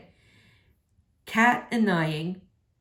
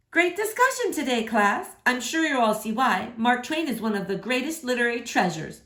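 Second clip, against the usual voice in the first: higher, bright teacher praising the class; a class-wrapping teacher, pitched up; 3 semitones higher than usual. Acted. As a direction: sing it out like a pleased teacher. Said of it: "Miss Hardwick says".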